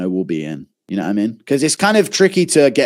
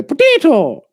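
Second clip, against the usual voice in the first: high, sudden yelled "Potato!"; mock shout; 4 dB louder, slower than usual. Kid teasing an Irish person, high mock yell. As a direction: blurt it out like a cheeky kid. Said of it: "I used to go".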